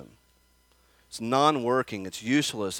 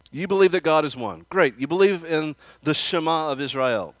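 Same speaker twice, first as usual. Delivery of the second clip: mock praise, a touch louder; biting sarcasm on a quote; sarcastic; 4 semitones higher, 5 dB louder than usual. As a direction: sneer it as fake congratulation. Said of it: "Notice the sarcasm".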